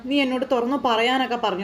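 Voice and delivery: ordinary delivery, nothing marked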